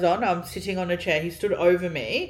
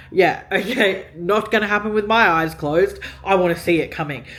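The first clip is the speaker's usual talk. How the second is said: louder, insistent; emphatic; 4 semitones higher, 5 dB louder than usual. Real, not acted. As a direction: drive it home firmly. Insisting she must see it.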